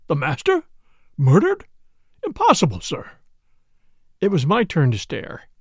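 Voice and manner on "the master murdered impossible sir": mildly shocked butler, rising questions; understated astonishment at terrible news; gasping disbelief. A narrator's reading. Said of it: "A gasp broke from Parker".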